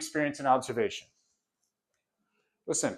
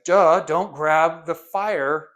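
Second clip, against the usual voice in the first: slow, drawn-out duh, mocking the obvious; 2 semitones higher, 5 dB louder, much slower than usual. Teacher mocking people who think it's obvious, slow duh. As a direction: drag it out like it's too obvious to say.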